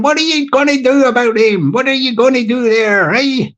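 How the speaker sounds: lightly put-on South Dublin Irish accent. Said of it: "This is in South Dublin".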